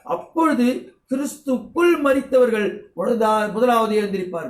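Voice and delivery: measured preacher's recitation of the verse; scripture reading. Acted. Reads scripture aloud.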